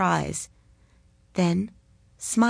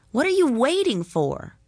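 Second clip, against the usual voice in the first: sneering, higher taunt; 7 semitones higher than usual. A narrator's reading. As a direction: jeer at her. Boy bullies Margot.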